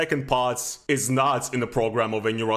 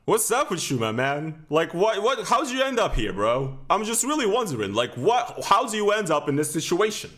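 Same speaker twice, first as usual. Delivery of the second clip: incredulous; 5 semitones higher than usual. Real, not acted. Incredulous at the guy on screen.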